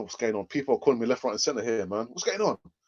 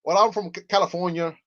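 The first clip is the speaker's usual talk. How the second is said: slightly raised Californian accent attempt; 3 semitones higher than usual. Shown as a demonstration. Host trying out accents for viewers, attempted Californian accent. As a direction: try a tentative Californian accent. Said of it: "Is that a Californian, uh, accent?".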